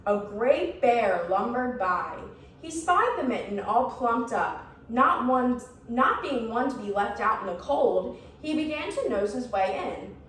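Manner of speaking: lively, measured storybook reading; story narration. A narrator's reading. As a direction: read a picture book to young children. Reads a picture book to children.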